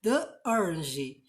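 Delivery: "the orange" with "the" said as "thee"; slow model of "the orange" with "thee"; the with vowel sound. Shown as a demonstration. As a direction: stretch "the" into "thee" before "orange". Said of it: "você fala com som de vogal".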